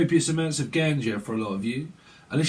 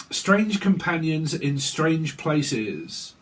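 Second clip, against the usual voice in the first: slow card reading; 2 semitones higher, much slower than usual. Acted. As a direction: read it slowly, like a card's title. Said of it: "reading card text".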